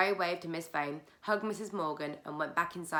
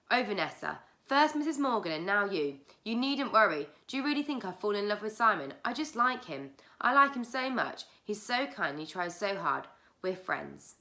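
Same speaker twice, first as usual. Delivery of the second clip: put-on a girl protesting, rising higher and more eager; earnest protest; 5 semitones higher, 5 dB louder than usual. A narrator's reading. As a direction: insist you're just friends, eagerly. Clary protests her feelings.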